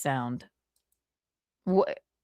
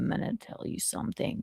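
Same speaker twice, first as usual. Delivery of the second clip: low impression voice; 4 semitones higher, 10 dB quieter, faster than usual. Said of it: "I can't get my voice".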